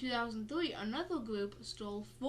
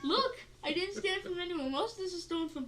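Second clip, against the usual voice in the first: laughing protest; 7 semitones higher, 4 dB louder, faster than usual. Real, not acted. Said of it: "Where'd you steal that joke from?".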